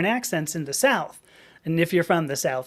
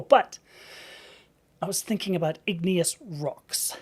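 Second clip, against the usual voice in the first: soft, musing British science presenter; hushed British lecture, dropping to near-whisper on key words; Hannah Fry; 4 dB quieter than usual. Retold or imitated. Presenter musing on granite and igneous rocks, soft British accent. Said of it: "Hannah Fry".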